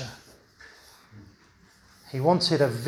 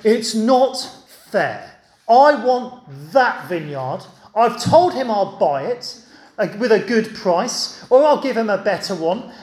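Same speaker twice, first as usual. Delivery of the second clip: whiny sulking king, a bit louder; petulant Ahab sulking, pitched up; sulky king; 3 semitones higher, 3 dB louder than usual. Acted. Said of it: "he had a big sulk".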